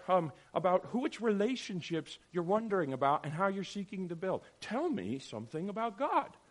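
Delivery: swooping, mock-eager questions; sarcastically earnest parent; dripping sarcasm. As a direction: drip sarcasm on every request. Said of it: "You hear me dripping sarcasm".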